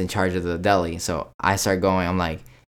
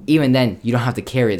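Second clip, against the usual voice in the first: retold firm retort; 5 semitones higher, 6 dB louder than usual. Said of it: "I'm like".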